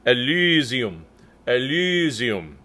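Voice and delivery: Elysium with a ü between U and E; Elysium vowel between. Shown as a demonstration. Choir director modeling Elysium, slow careful vowel. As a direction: round the lips for the y in Elysium. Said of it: "It falls kind of in between".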